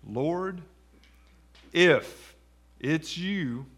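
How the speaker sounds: halting and questioning, with IF set apart; hint of doubt. Shown as a demonstration. Peter calling to Jesus on the water, hint of doubt. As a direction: pause around IF as though unsure it's him. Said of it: "Do you hear a hint of doubt".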